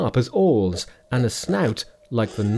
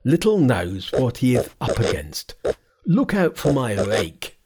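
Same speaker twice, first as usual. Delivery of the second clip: raised, boastful monster voice; monster crying out. Acted. Monster answering Hui Yen's threat, raised voice. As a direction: shout the threat back. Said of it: "cried the monster".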